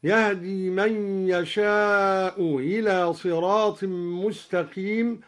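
"يشاء إلى" with the hamza of "إلى" softened; eased hamza. Shown as a demonstration. Teacher shows the easing option in "يشاء إلى". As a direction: ease the glottal stop in "إلى" after "يشاء". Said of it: "وله فيها التسهيل أيضًا هكذا".

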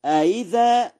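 أإذا with the second hamza eased, no full stop; first hamza firm, second one glided in أإذا; softened second hamza. Shown as a demonstration. Teacher shows Warsh's reading, أإذا with eased second hamza. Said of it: "بتسهيل الهمزة الثانية للتخفيف".

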